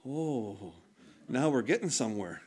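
low, soft voice of God, pleased; a hushed, knowing God finally getting through; God's voice. Retold or imitated. God speaking to the preacher, low and quiet. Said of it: "And then it was like".

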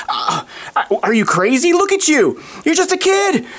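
high-pitched disbelieving king; incredulous king. Acted. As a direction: act a king balking, voice leaping up high. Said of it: "the king's like".

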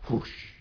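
breathy, voiceless whoosh; imitated whoosh. Preacher acting out Jesus boarding the boat, imitated whoosh. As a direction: make a rushing wind noise. Imitates the storm going still.

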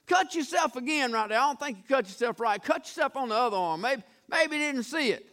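sarcastic taunt. Acted. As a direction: egg them on with fake helpfulness. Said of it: "he began sarcasm".

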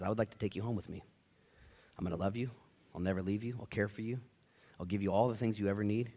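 low, soft reassurance; quiet, caring fatherly voice; tender adoptive father. Acted. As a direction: gently promise a lonely child a home.

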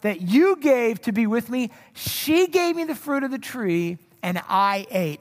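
acted finger-pointing, key words punched; accusatory blame. Adam excuses himself to God, accusatory. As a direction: pass the blame on emphatically. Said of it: "sounds like he's blaming God".

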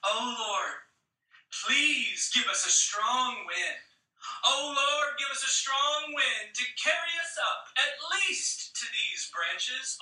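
a little girl's hopeful prayer, lightly voiced; child's prayer. Girl in the hammock praying for wind, lightly voiced. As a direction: pray sweetly like a small child. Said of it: "This is what she prays".

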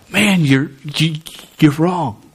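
understated, matter-of-fact verdict; calm, cool. Acted. Preacher voicing God judging sin, calm cool delivery. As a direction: state it calmly without any anger. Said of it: "but it's calm, cool".

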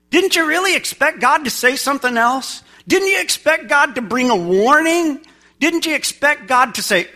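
high, incredulous rhetorical questions; incredulous questioning. Acted. Preacher challenging what listeners expect of God, incredulous. Mock astonishment before stern-God quote.

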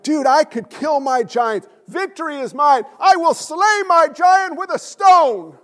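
overexcited Bible reader boasting; pumped-up bravado. Retold or imitated. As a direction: hype yourself up like a hero ready to fight. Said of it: "you're like".

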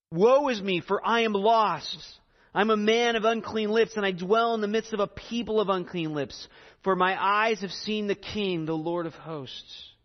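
solemn scripture reading. Acted. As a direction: read Isaiah's cry with gravity. Reads Isaiah passage.

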